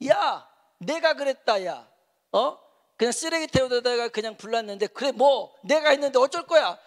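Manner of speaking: high, defiant mock scolding; loud, combative retort, imitated. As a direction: act out a church elder angrily owning up. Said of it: "막 그렇게 야단을 치더라는 거예요".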